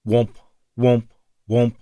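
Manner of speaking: alarm womp. A narrator's reading. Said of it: "The sound drilled into Jake's brain".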